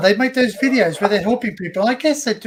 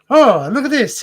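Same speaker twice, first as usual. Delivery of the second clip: higher, louder mock amazement; showy magician's patter; 7 semitones higher, 8 dB louder than usual. Retelling a magic act, showy magician's patter. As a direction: call it out like a showman.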